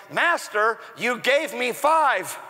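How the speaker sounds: slow, measured "you gave me five"; slow lead-in. Shown as a demonstration. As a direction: hold back before the reveal. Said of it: "in between is the word look".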